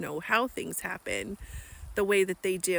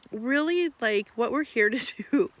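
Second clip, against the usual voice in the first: laughing; 4 semitones higher, 4 dB louder than usual. Real, not acted. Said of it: "I'm laughing because I'm so not good at this".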